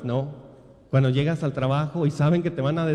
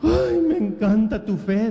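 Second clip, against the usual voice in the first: higher-pitched mock weepy admiration; imitated tearful woman; 4 semitones higher, 4 dB louder than usual. Preacher imitating the lady moved by his faith, tearful gushing. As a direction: gush as if through tears, lightly put on. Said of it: "la señora estaba llorando".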